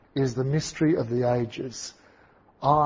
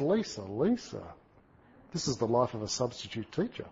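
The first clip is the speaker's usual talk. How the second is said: gentle teacher; 8 dB quieter than usual. Retold or imitated. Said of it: "He goes".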